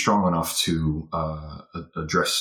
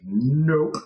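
stubborn nope; 2 semitones higher than usual. Retold or imitated. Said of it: "And she was like".

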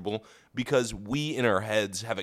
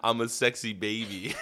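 laughing. Pretend. Laughing baby joke.

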